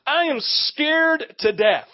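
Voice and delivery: slow, emphatic mock dread; hammed-up scared confession; mock scream of fear. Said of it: "everything in his face is screaming".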